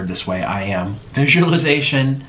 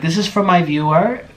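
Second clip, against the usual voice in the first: higher, badly faked British accent; 6 semitones higher than usual. Vlogger quoting Orlin's video for her, bad British accent. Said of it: "when he had his British accent".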